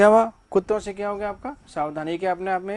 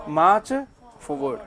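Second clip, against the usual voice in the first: march punched louder, forward rising at the end; 3 dB louder, much slower than usual. Shown as a demonstration. Teacher demonstrating an order to the class, rising. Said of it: "का meaning क्या हुआ".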